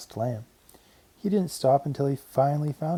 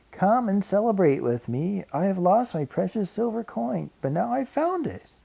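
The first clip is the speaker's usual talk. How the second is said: joyful celebration; 7 semitones higher than usual. A narrator's reading. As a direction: announce good news joyfully, pitch climbing to the end. Woman calls friends to celebrate her find.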